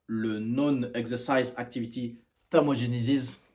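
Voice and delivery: slow, careful English accent on the term. Shown as a demonstration. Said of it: "Admire mon accent anglais". (accent anglais appliqué, un peu plus lent)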